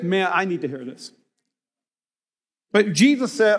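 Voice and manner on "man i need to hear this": sincere confession. Acted.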